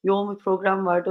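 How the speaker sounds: slightly hoarse, tired throat. Real, not acted. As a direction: talk through a hoarse throat. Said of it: "sesim de hafif kısıldı".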